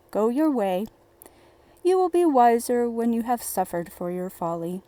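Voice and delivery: a touch of a grumbling father, different timbre; lightly voiced stern father. A narrator's reading. The father sending Dummling off, a hint of stern scorn. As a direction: dismiss the boy with mild scorn.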